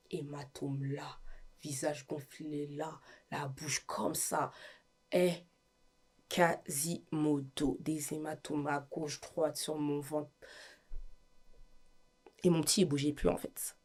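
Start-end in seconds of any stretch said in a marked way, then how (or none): 0.1-10.3 slow, much softer, half-whispered; softly listing the bruises, barely voiced; shaken whisper. Real, not acted. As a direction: let each injury fall quietly, stunned. Describing her battered face.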